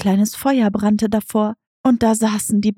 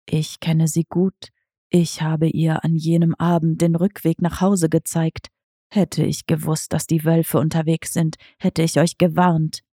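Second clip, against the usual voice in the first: understated lower cat voice; tomcat Diego asking; 5 semitones lower than usual. Acted. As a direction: ask like a sly old tomcat.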